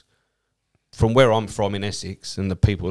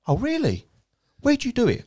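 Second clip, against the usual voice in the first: much higher, suddenly keen and friendly; sudden eager interest. Retold or imitated. The critical stranger suddenly keen on his stand-up, high gushing voice. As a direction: flip from hostile to gushing. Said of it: "his whole demeanour changed".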